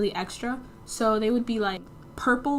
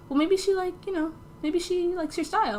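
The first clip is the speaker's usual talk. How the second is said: mom's voice; 8 semitones higher than usual. Retold or imitated. Mom reassures her.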